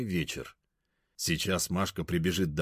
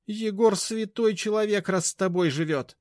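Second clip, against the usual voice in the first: high, loud, mocking; high-pitched contemptuous jab; scornful snort; 13 semitones higher, 4 dB louder than usual. A narrator's reading. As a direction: sneer at her. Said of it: "фыркнула бабушка".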